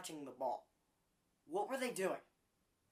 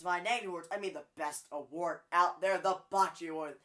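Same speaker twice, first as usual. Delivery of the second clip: the whole line pushed louder, "Bocce Award" hit hard; extra emphasis; 6 dB louder than usual. Shown as a demonstration. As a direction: announce "the best award out there, the Bocce Award" with a big push. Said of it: "so I put extra emphasis on it".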